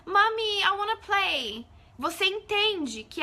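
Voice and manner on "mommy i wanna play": put-on high, loud, slow little child; slow childlike plea, high and loud; child's voice. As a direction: ask like a small kid wanting to play. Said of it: "a criança fala assim".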